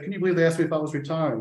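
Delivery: fast, hammed-up aggrieved quote; mock victim whine. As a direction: rattle it off like a wounded player. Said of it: "Charlie turned around and twisted that and said".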